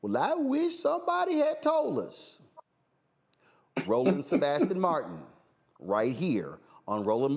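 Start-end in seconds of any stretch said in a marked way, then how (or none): 0.0-2.4 high, whiny mock regret; mock regretful whine. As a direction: whine it like someone who ignored the warning. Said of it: "y'all gonna be saying".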